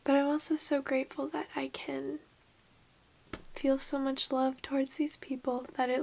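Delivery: hushed, teary whisper; soft confessional whisper; emotional whisper. Real, not acted. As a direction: whisper it, close to tears.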